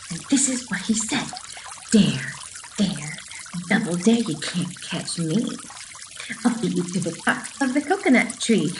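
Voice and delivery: lively, sing-song picture book reading; reading to children. Acted. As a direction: read it bright and bouncy for little kids.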